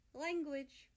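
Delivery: mock-scold his brother; teasing. A narrator's reading. Russia teasing Germany, playful scold. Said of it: "Russia teases".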